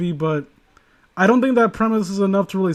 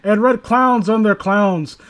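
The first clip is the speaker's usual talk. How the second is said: story reading. Acted. Reads a creepy story aloud.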